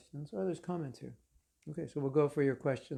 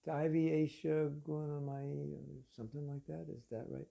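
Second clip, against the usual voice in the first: mock hesitant verse recall, fading very soft; halting and subdued, trailing off; boring lecturer; 6 dB quieter than usual. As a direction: play an unsure, droning teacher. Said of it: "the um is, like, every third word".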